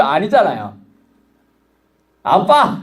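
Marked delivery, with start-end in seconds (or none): 2.2-2.8 put-on high, bright child's cry of "아빠"; child calling dad. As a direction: call dad like a small child who wants something. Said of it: "이러면 끝난 거야".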